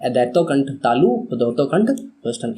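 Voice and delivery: steady chanting recitation of the formula; recitation drill. Shown as a demonstration. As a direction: recite it like a rote memory drill. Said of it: "मैं आपसे कहूँगा कि आप मेरे साथ repeat ज़रूर करें".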